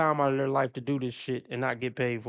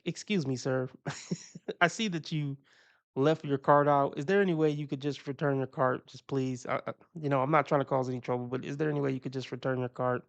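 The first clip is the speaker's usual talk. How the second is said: sweet polite request. Pretend. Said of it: "if they were really sweet about it".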